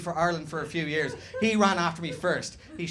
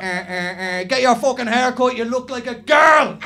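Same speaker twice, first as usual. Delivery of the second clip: loud, higher taunting yell; jeering from cars; 6 semitones higher, 10 dB louder than usual. Retold or imitated. Drivers taunting the long-haired boy, loud mock yell. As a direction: shout it out of a passing car window. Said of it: "people driving by in cars".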